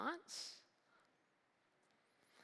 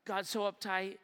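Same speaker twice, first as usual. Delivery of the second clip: casual dismissive; 3 semitones higher than usual. Pretend. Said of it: "When we look at God and say".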